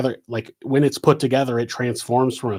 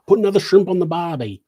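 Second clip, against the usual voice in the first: higher, louder, quick Australian impression; bad Australian accent; 6 semitones higher, 5 dB louder, faster than usual. Shown as a demonstration. Quoting a doubtful Aussie phrase, bad Australian accent. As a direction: put on a hammy Australian accent. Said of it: "I can't do an Australian accent".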